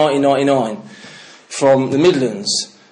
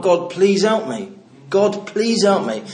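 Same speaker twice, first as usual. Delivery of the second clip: tearful plea; 4 semitones higher, slower than usual. Retold or imitated.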